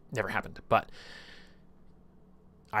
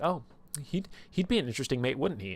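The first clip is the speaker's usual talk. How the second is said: teasing taunt; 4 semitones higher than usual. Retold or imitated. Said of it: "taunting her and teasing her".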